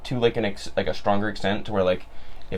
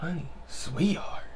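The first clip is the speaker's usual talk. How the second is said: Southern endearments; 5 semitones higher, 6 dB quieter, slower than usual. Retold or imitated. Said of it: "And you're like".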